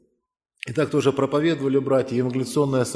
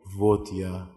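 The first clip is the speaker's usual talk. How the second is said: quiet humble words; 6 semitones lower than usual. Retold or imitated. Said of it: "не забуду это слово его".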